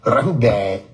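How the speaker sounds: "Rahubat" said the wrong way; mock wrong Rahubat again; mocking bad tone. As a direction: repeat the irritating "Rahubat". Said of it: "like that".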